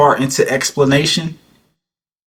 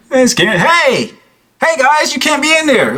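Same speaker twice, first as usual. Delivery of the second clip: high, feeble tough-guy act; light-voiced warning with no menace; mock light voice. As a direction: imitate him failing to sound brave. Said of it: "It's your light-ass voice".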